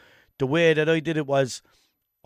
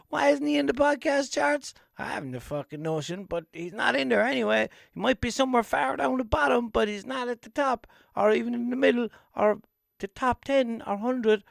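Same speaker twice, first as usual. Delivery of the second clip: higher, lightly dramatic narration; lingering mock narrator voice; 9 semitones higher than usual. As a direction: keep the TV-narrator tone going.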